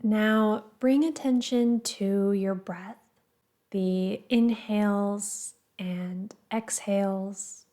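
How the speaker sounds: calm, measured guiding voice with pauses between phrases; guided meditation. Acted. Meditation teacher guiding listeners to the breath, calm and measured. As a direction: gently lead a meditation, leaving space after each phrase.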